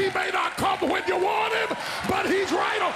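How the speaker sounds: high ringing proclamation; preaching shout. Acted. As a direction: shout the promise over the room. Preaching at full force.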